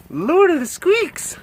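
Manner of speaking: high, slow cooing squeak. Real, not acted. Cooing a silly title to a pet, high baby talk. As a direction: coo it high and drawn out. Repeats pet's name up high.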